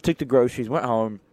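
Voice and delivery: playful put-on British accent; British lad listing his day; amateur British accent, lively; British accent attempt. Shown as a demonstration. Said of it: "rate my accent down below".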